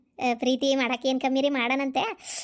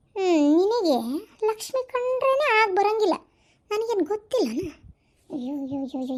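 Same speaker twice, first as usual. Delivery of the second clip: snide taunt; 4 semitones higher than usual. Acted. Jealous in-law taunting aside.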